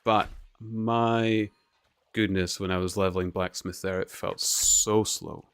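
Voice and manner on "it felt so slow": slow. Real, not acted.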